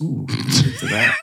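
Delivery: very high breathy ooh; high mock moan. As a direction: squeal it high and slow. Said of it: "Just like".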